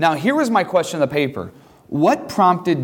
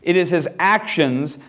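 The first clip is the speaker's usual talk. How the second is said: "actions" given deliberate emphasis; stress on actions; 3 semitones higher than usual. Real, not acted. Teacher repeating the key point, stressing "actions". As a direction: land firmly on the word "actions". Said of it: "I'm emphasizing that word intentionally".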